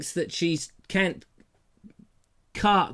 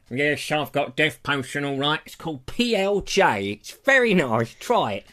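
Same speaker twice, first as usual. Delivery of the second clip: potion seller voice; 3 semitones lower than usual. Acted. Potion seller answers Juliet.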